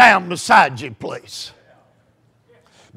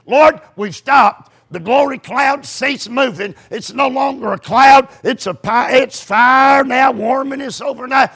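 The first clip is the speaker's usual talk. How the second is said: praying aloud. Acted. Preacher acting out Moses' evening prayer, impassioned praying. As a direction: plead with God, easing down at the end. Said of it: "He prayed this".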